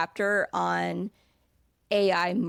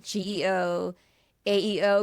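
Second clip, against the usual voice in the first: hesitant. Shown as a demonstration. Marketer unsure what to call the new field, hesitant. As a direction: say each term haltingly, as if doubting the name. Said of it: "the hesitation in my voice".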